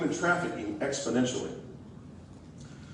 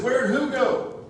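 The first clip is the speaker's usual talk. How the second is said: high, slow, faux-puzzled question; mocking the chief's feigned ignorance, pitched up; mock innocent play-dumb; 8 semitones higher, much slower than usual. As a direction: drag it out like you have no idea who they mean. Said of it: "He said".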